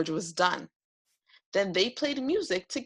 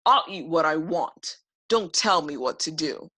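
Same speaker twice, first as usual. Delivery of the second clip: lower, louder stubborn dragon; defiant yell; 3 semitones lower, 4 dB louder than usual. Acted. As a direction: snap back at the boy. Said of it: "Joe yelled".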